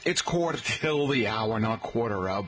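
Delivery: lightly imitated New York accent. Host mimicking people down in New York, New York accent. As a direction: quote it like a New Yorker. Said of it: "people down there in New York".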